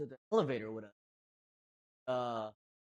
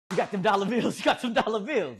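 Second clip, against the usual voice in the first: mock hollering, a bit high and loud; imitated yelling; 4 semitones higher, 4 dB louder than usual. Friend yelling about dollar bills at the girl, mock holler. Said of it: "That's what he's yelling it to her".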